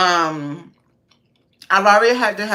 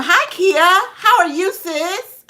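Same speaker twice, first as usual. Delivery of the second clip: cheerful greeting; 13 semitones higher, 5 dB louder, slower than usual. Real, not acted. Greeting a viewer in chat.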